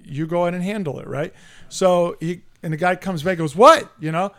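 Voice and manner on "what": loud, high incredulous outburst; indignant disbelief. Retold or imitated. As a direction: imitate an opponent protesting a call. Retold opponent challenges the call.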